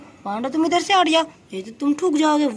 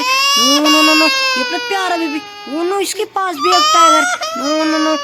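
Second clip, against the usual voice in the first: mock panic; 4 semitones higher, 4 dB louder, slower than usual. Toy tiger threatens the baby doll.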